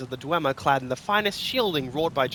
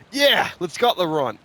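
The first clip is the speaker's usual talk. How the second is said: growl; 4 semitones higher, 5 dB louder than usual. Acted. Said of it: "growled the Nord".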